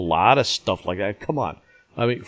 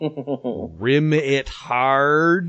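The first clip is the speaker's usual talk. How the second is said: slow commentator quote; 4 dB louder, much slower than usual. Retold or imitated. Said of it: "Locker said".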